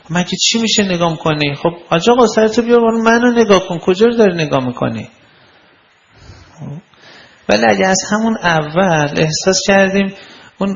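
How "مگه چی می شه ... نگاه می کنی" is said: mock scolding women. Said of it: "خیلی خانوما".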